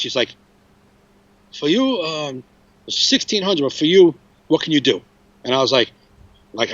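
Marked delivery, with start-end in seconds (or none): 1.5-5.0 lightly imitated Italian landlord; Italian accent. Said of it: "maybe a very thick Italian accent".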